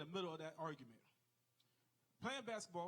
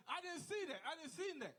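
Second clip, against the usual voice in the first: squeaky dodging teammate; 9 semitones higher than usual. Retold or imitated. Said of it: "was like".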